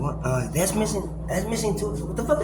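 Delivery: high, rising disbelief; mock shocked discovery; retold surprise. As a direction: act out finding things missing. Retells discovering things missing.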